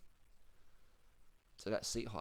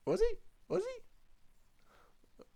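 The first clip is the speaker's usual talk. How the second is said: mock whisper; much slower than usual. Real, not acted. Teasing doubt about the sprint.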